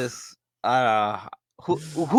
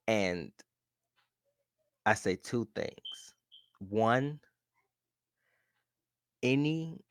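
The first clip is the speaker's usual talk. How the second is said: disappointed dad voice; 2 semitones lower, 7 dB quieter than usual. Acted. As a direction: lecture her with quiet disappointment. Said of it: "The disappointment on your voice".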